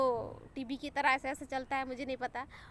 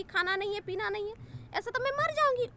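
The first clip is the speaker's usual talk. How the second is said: dramatic protest; 6 semitones higher than usual. Retold or imitated. To the doctor after being told no food, a high mock wail.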